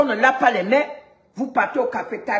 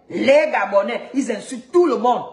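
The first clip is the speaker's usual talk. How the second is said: mocking Beninese accent. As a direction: drag it out in a mock Beninese accent. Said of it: "Vous avez entendu leur accent".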